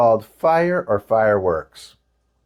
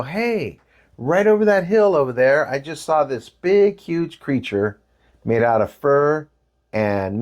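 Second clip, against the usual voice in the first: eager youth pitch; 3 semitones higher than usual. Retold or imitated. Eager tribe youth with sticks.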